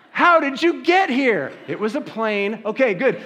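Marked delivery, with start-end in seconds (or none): 0.1-1.5 high and slow through a laugh; laughing silly question. Retold or imitated. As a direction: ask it giggling at yourself. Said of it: "you ask all those silly questions".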